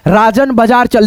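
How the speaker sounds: slow, clear reading of राजन बाजार चल; slow dictation. Shown as a demonstration. Teacher reading राजन बाजार चल aloud, slow. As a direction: dictate each word carefully. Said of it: "जैसे लिखा है राजन बाजार चल".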